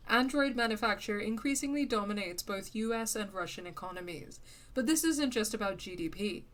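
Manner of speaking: measured magazine read; article read-aloud. Real, not acted. Streamer reading an in-game magazine to viewers, measured article reading. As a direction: read it out like a news feature.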